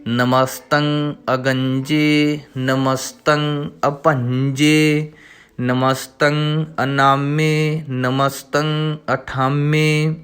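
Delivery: slow, measured recital of the verse; slow devotional reading; scripture recitation. Shown as a demonstration. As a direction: recite each word slowly and clearly. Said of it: "ਤਾਂ ਇਸ ਤਰ੍ਹਾਂ ਉਚਾਰਨ ਕਰੀਏ".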